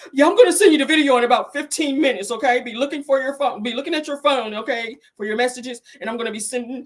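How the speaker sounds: mild mock eager Bob on the phone; imitating Bob. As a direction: plays Bob sweetly promising the video.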